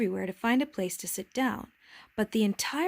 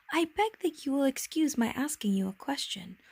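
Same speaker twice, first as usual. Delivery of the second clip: higher, deferential request; humbly polite; 5 semitones higher than usual. Acted. Little prince begs leave to question the king, humble. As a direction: ask leave with mild timidity.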